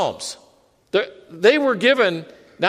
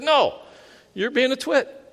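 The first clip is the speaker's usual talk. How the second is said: higher-pitched, jokey telling-off; playfully rebuke, voicing God's answer; mock divine scolding; 6 semitones higher than usual. Preacher jokingly voicing the Lord's answer to him, mock scolding. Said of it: "he doesn't really speak like that to me".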